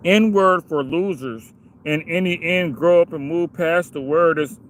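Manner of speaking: slow, sneering reading of a comment; mocking read-aloud. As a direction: read the troll's words back with scorn. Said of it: "let's all read this stupid shit together".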